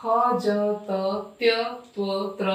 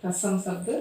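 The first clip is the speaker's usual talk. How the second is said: writing-pace dictation; 6 dB quieter, slower than usual. Real, not acted. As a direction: piece by piece with very long pauses. Dictating while writing on the board.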